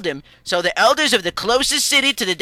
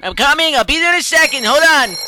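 calling out; 4 semitones higher, 4 dB louder than usual. Acted. Calls out while running to phone.

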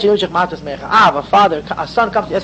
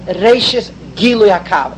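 Gilui picked out with emphasis; slow term, weight on Gilui; stress on Gilui; slower than usual. Real, not acted. Teacher defining a term for students, stress on Gilui. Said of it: "Emphasis on the word Gilui".

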